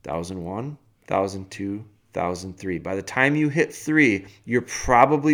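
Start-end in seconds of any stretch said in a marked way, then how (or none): 0.0-2.8 soft, evenly spaced count; measured counting. Shown as a demonstration. Coach showing an owner how to pause before lashing out, measured count. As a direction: count it out quietly to cool off. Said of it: "Count to three".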